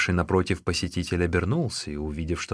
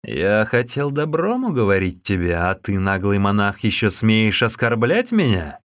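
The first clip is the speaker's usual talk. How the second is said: louder indignant rebuke; angry reply; 5 dB louder than usual. Acted. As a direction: bristle with offended anger. Visitor angrily answers the monk.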